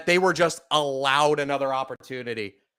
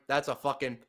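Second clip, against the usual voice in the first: stunned mutter; 2 semitones lower, 6 dB quieter, faster than usual. Real, not acted. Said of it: "I'm actually so pissed".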